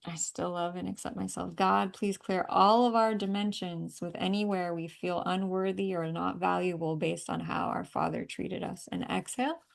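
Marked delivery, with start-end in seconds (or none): 1.5-8.9 firm, louder prayer voice, asking God to clear; earnest prayer. Acted. Healer praying aloud over the client, firm and earnest. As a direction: pray it out with conviction.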